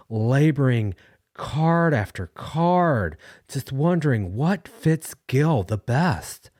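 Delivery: choking up while defending the card senders; emotional. Real, not acted. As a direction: voice high and slow with rising emotion. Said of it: "I can't help but to show a little bit of emotion".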